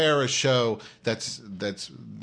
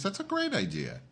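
sarcastic; 9 semitones higher, 5 dB quieter than usual. Real, not acted. Sarcastic reply to a suggestion.

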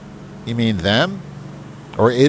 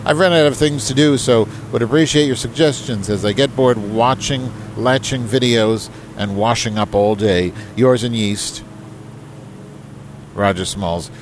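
higher, formal letter-reading voice; email read aloud; 3 semitones higher than usual. Acted. Host reading Roger's email aloud to the audience, higher and formal. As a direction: put on a proper, correspondence tone.

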